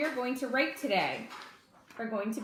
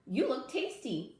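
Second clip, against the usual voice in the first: chattering squirrel; 4 semitones higher than usual. Acted. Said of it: "chatted Mister Squirrel".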